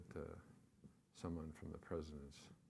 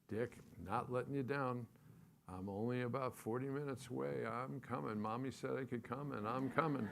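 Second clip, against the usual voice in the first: raised, louder voice of a determined caller; emphatic retold phone call, pitched up and projected; quoting President Reagan; 7 semitones higher, 6 dB louder than usual. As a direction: call out reassurance, high and loud. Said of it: "he was in some vehicle being driven down here".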